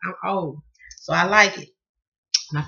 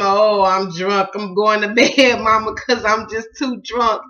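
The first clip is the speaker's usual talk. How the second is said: slow, slurred mock drunk boy; lightly hammed-up drunk; 6 dB louder, slower than usual. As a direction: slur it slowly like a kid faking drunk.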